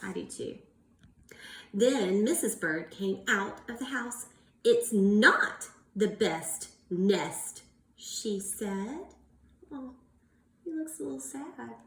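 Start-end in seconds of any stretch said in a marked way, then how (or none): 0.0-0.6 whispered I do too; quiet aside. Real, not acted. Teacher to class, a soft whispered aside. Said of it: "Do you like to sing". 4.6-7.6 slow, louder, a touch cross; mild frustration. Acted. Teacher voicing Missus Bird, a mild grumble. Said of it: "frustrated and angry".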